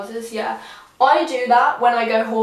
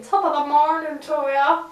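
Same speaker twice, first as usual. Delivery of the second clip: imitating her own higher, lilting greeting; half-sing it, pitched up; singsong; 4 semitones higher than usual. Vlogger mimics her own greeting for viewers, singsong. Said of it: "Sound like I was singing".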